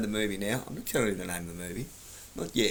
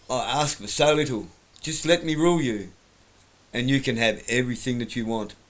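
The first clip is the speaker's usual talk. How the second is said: bad acting; 4 dB louder than usual. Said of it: "because I'm a terrible actor".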